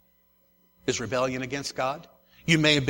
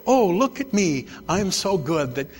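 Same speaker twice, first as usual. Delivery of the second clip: mock self-righteous; 4 dB louder than usual. Mocking a self-righteous person.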